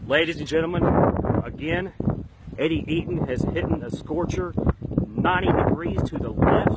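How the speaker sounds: hammed-up golf announcer shouting the play; excited commentary. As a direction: call the wild shot like a big-time commentator. Mock golf commentator hyping shot.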